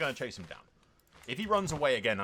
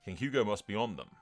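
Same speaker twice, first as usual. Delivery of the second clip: measured first-person war chronicle; in-character battle narration; dramatic story narration. A narrator's reading. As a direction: recount the chase like a storyteller.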